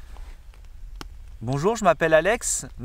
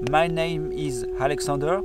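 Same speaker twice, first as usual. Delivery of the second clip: French accent. Shown as a demonstration. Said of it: "Quel accent".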